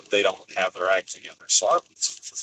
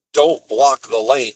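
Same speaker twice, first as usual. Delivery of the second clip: mock yell; 3 semitones higher, 7 dB louder, slower than usual. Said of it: "he starts yelling at us".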